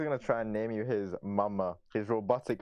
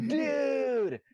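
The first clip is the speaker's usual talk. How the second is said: American accent; 3 dB louder than usual. Shown as a demonstration. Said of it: "My voice dies".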